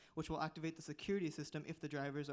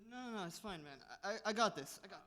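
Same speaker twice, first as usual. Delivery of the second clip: put-on slurred, higher-pitched drunk insistence; drunk driver insisting; 5 semitones higher, faster than usual. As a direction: play the stubborn tipsy driver.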